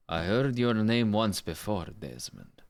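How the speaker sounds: trying out a solemn character voice; test character voice. Shown as a demonstration. Streamer testing a voice for an Ezio speech, in character. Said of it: "let's see if that voice works".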